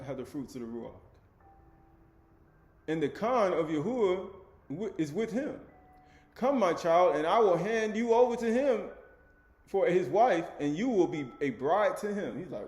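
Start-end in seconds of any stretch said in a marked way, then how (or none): 2.9-12.4 raised, declamatory reading voice; emphatic scripture reading. A narrator's reading. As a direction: read the scripture out with punched key words. Reads scripture aloud to listeners.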